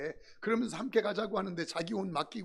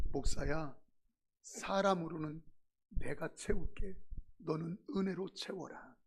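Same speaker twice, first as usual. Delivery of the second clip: voice of God; 4 semitones lower than usual. Acted. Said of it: "하나님의 음성이 그 말이에요".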